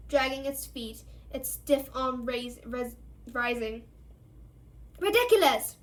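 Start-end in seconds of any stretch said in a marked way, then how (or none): 5.0-5.8 high loud cry; cried out. A narrator's reading. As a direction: fling the spell out loud and high. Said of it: "cried Parvati".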